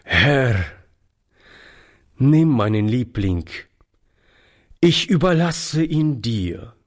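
aloud prayer. A narrator's reading. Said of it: "und sagte laut".

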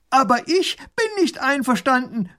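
put-on high, loud indignant child duke; pompous little duke shouting; little grand duke calling. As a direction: protest loudly. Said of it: "ruft er herüber".

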